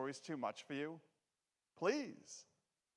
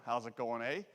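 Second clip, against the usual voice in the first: Canadian welcome; 4 semitones lower than usual. Retold or imitated. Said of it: "I'll give you the Canadian welcome".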